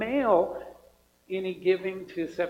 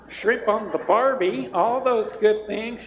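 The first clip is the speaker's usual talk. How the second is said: higher, louder mock Australian accent; cheesy Australian accent; 3 semitones higher, 5 dB louder than usual. Shown as a demonstration. Pastor joking about the Australian VBS theme, cheesy Australian accent. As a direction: ham up the Aussie slang in a cheesy Australian accent. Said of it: "talk with a cheesy Australian accent".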